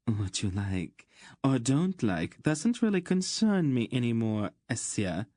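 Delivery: cool disdain; cold. Acted. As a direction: put a spoiled lover in his place. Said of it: "looked rather coldly at the young man".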